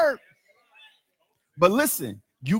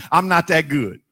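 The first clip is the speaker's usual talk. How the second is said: laughing; 5 semitones lower than usual. Real, not acted. Preacher admitting his own limits.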